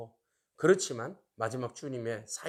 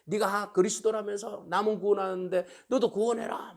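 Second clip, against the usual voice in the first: higher-pitched imitation of jeering; mocking taunt; 5 semitones higher than usual. Onlookers taunting Jesus on the cross, mockingly. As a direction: toss it out as a retold jeer. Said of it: "조롱하고 비웃어요".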